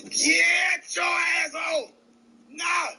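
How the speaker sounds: loud, slow yell at a runaway dog; drawn-out angry holler; calling the dog home. Real, not acted. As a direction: stretch it out and holler it across the yard.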